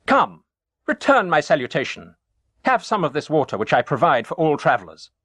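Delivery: calling to the traveller, not quite a shout. Acted. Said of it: "called out to him several times".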